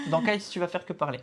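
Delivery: repeated through a laugh. Real, not acted. Repeating his joke to his wife, laughing. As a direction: chuckle the line out as you say it again.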